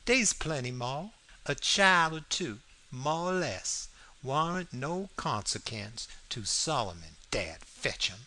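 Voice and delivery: Southern dialect, a touch of insistence; lightly played dialect character making his case; lightly voiced Jim. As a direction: argue as Jim in thick dialect. Jim argues in dialogue, read aloud.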